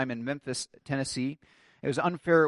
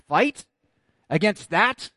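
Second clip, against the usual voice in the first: high, loud incredulous soldier; crying back; 4 semitones higher, 4 dB louder, slower than usual. Acted. Soldier answers Wallace facing English hordes, raised cry of disbelief. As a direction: call it back as a startled question. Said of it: "one soldier cries back to him".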